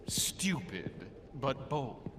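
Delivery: a hushed, contemptuous aside; scornful whisper. Acted. Guardian whispering scorn at the empty-handed warrior. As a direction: whisper the insult under your breath.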